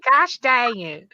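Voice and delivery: slow drawn-out mock "Gosh dang it"; imitating Michael. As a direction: quote him slowly in a drawn-out mock voice. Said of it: "Michael said".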